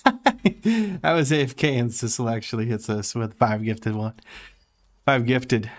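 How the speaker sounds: panting after running around; out of breath. Real, not acted. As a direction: speak winded, catching breath. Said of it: "I'm out of breath 'cause I ran around".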